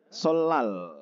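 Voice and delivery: "solal" said as sol-lal; nien read as riel. Shown as a demonstration. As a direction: hold the middle L in "solal". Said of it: "melafalkan dengan riel".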